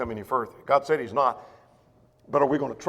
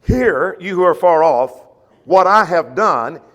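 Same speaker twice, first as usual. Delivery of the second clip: louder, proclaiming to the far off; calling out as God; 7 dB louder than usual. Acted. Preacher voicing God calling to those far off, loud. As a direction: summon the distant nations. Reading God's call aloud.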